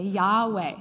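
Yahweh in two syllables, YAH then way; pronunciation of Yahweh. Shown as a demonstration. Showing the congregation how the name is said, Yahweh as YAH-way. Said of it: "heard it also said this way".

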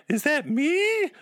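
high, slow, timid little question; sheepish. Retold or imitated. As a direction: ask it shyly, not quite believing. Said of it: "all sheepish".

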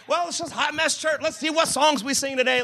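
lightly put-on Southern preacher; casual mock Southern churchgoer; a touch of Southern twang; Southern accent. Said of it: "this is a Southern voice".

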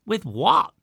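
high, loud sudden shout; shouted demand. A narrator's reading. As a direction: fire the question back loudly. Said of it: "shouted I".

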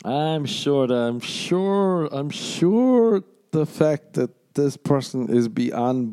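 hammed-up wishful thinking; mock naive dater. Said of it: "I'm not gonna go".

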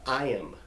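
"I am" said clearly as an ending; teacher's careful "I am"; ending IM demonstrated. Shown as a demonstration. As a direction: say "I am" as two vowels, stress on it. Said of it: "pronounce those words".

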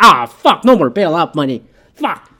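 imitating a loud, exasperated outburst; mock dismay. Speaker voices the market losing bailout money, mock dismay.

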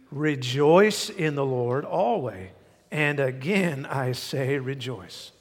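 slow, emphatic reading of the verse; scripture reading. Real, not acted. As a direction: read it out together, measured and firm. Congregation reads verse aloud.

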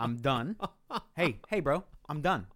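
rising exasperation, I'm done and leaving. Retold or imitated. Retold argument with manager.

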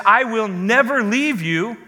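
"never" given firm emphasis; stress on never. Shown as a demonstration. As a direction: put the weight on "never". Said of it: "Emphasis on the word never".

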